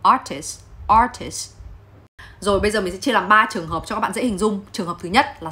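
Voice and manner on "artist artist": "artist" said with the final T dropped; pronunciation demo of "artist", ending on the S; T left silent. Shown as a demonstration. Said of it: "Hầu hết nó chỉ đọc là".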